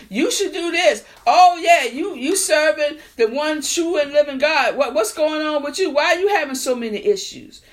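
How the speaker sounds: imitating churchgoers who taunt you; mocking critics. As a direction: needle them like a smug critic. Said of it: "Ain't that what people saying?".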